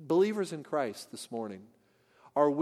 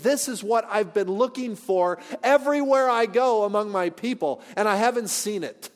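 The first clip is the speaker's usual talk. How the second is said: higher, louder astonished exclamation; 4 semitones higher, 4 dB louder than usual. Acted. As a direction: voice Jesus amazed at a long-sought find. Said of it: "Jesus is astonished".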